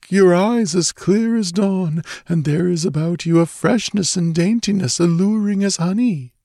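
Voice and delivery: high, languid, sensuous reverie; dreamy murmuring. A narrator's reading. Dreamy stranger wooing the girl, murmuring sensuously. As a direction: linger over each image, high and dreamy. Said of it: "he murmured".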